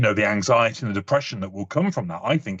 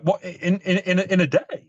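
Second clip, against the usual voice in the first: higher, stammering incredulous question; mock disbelief; 6 semitones higher than usual. Brit replying to tourists' overpacked itinerary, incredulous. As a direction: stumble in disbelief.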